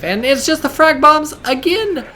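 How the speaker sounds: high, slow, loud hyped yell; excited shout. Real, not acted. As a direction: scream it like a caster losing it. Caster hyped over frag bombs.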